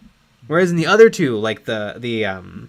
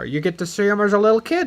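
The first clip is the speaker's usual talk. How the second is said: higher, lightly put-on director voice; George Lucas; 5 semitones higher than usual. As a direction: pitch it like a mock proud director. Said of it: "And then George's like".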